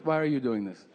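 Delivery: put-on mom asking suspiciously in a light Peruvian accent. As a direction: Peruvian mom puzzled he won't argue. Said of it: "she's from South America, Peru".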